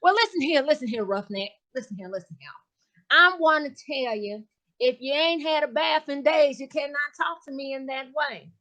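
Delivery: sassy gossiping lady voice, lightly voiced; Miss Jazzy character voice. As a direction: play a brassy gossip.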